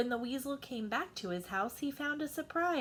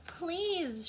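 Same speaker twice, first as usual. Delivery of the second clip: shouted; 7 semitones higher than usual. Acted. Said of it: "shouted the mouse".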